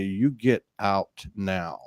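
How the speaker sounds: slow, low and soft divine command; a hushed Mother Goddess ordering, slowly. Retold or imitated. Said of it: "that Mother Goddess voice".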